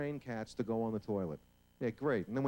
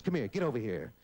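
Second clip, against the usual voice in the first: scolding neighbor; 4 semitones higher than usual. Acted. Neighbor scolding his dog.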